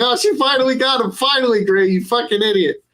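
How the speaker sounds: a happy fan telling off a dense hero, fast and high; gushing relief. Retold or imitated. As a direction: blurt it out like the fan finally got the ending. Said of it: "and I was like".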